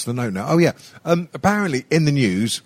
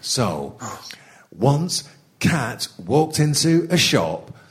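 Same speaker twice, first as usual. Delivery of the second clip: mock northern accent. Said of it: "put on a mock northern accent".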